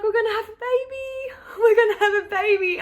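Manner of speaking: high, crying repeat; crying joy. Retold or imitated. Wife echoing husband on the couch, crying with joy. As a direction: weep it with joy. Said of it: "we're just crying".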